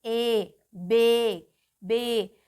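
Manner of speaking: ए held long in "बे"; long vowel demo. Shown as a demonstration. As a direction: stretch "बे" on a full ए sound. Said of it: "ए की sound आ रही है".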